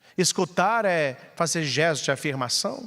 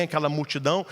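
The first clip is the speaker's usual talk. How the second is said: ordinary delivery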